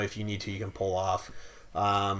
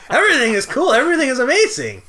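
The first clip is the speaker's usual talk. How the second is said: excited; 11 semitones higher, 7 dB louder, faster than usual. Real, not acted. Gushing about vacation.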